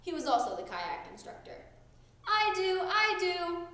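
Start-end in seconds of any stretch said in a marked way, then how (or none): 2.3-3.7 high, loud eager cry. A narrator's reading. Froggy volunteering eagerly for the kayak. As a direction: beg to be picked. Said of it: "cried Froggy".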